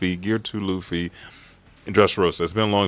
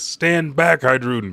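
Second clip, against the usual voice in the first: urgent warning; 5 semitones higher, 4 dB louder than usual. Retold or imitated. Acted warning to Hydruden.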